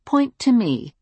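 calm. Acted. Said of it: "I told her calmly".

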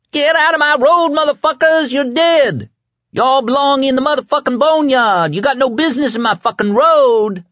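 sustained high-pitched raging yell; furious roaring. A narrator's reading. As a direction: scream threats at full tilt. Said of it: "the kid roared".

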